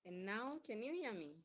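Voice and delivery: barely audible, far from the mic; weak, distant voice on a bad line; faint voice. Real, not acted. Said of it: "your voice is still very low".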